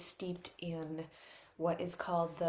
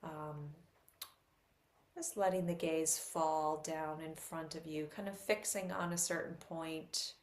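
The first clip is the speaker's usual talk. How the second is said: softer, unhurried instructions with long pauses; guided meditation; 3 dB quieter than usual. Real, not acted. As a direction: gently guide listeners into settling the body.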